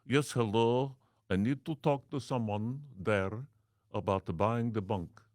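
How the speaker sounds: a light mock Arab accent; put-on Arab accent. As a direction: play a foreign caller asking to buy the bank. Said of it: "as an Arab".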